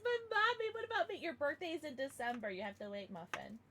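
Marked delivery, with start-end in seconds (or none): 0.0-2.5 voicing the dog. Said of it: "he says".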